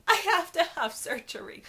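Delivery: high, loud re-enacted inner panic; freaking out. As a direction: blurt it out like a panicked thought. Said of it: "internally freaking out".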